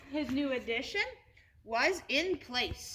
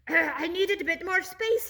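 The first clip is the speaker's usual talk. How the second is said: exclaiming; 6 semitones higher, 6 dB louder than usual. Acted. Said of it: "he exclaimed".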